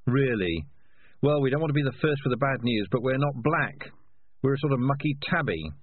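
dry, teasing conscience. Acted. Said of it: "said the conscience".

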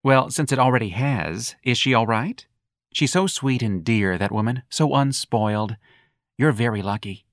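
syrupy, slowed sarcasm; mock sweet young man. Young man asking after Ignatius's mother, syrupy mock. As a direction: coo it with false sweetness.

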